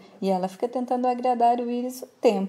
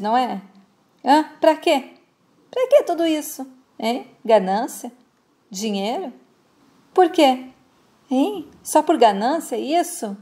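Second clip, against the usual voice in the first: angry accusation. Retold or imitated. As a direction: voice rising in outrage. Kaique confronts Bárbara angrily. (acusação indignada, voz subindo)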